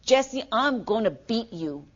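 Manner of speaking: slow, menacing threat. Shown as a demonstration. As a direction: threaten her slowly, like you mean it. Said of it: "I say in a very menacing tone of voice".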